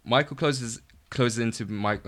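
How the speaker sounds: even, measured stage-direction reading; script read-aloud. A narrator's reading. Writer reads their script to a friend, slightly nervous read-aloud. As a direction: read out screen directions line by line.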